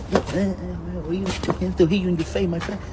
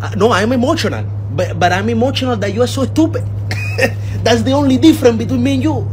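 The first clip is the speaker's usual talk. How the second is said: louder, worked-up comic tirade; exasperated rant; 3 semitones higher, 6 dB louder than usual. Acted. Father reacting to son's stupid tattoo idea, exasperated. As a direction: berate with mounting disbelief.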